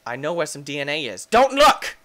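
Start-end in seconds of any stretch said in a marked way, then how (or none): 1.3-2.0 high, loud mock order; mock command. Player ordering viewers not to peek, mock command. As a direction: shout a playful warning.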